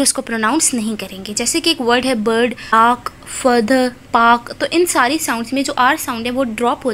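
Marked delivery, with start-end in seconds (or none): 2.2-4.5 बर्ड, आर्क, फर्दर, पार्क said slowly with no R before the consonant; slow demo of British R-dropping in बर्ड and पार्क; dropped R. Shown as a demonstration. Teacher shows the silent R in बर्ड, आर्क, फर्दर, पार्क. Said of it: "आर को drop कर देंगे".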